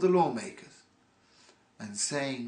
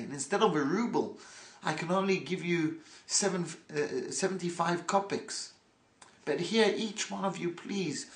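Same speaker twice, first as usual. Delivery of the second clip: higher, mock-effusive gratitude; gracious thanks; 4 semitones higher than usual. Yidel thanks the hooligans while paying less, effusive. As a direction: lay on the thanks with a smile. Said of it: "he says".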